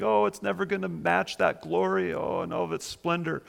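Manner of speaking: mild, put-on tearful moan; imitated weeping. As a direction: lightly wail like a disappointed mourner. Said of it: "they're just weeping".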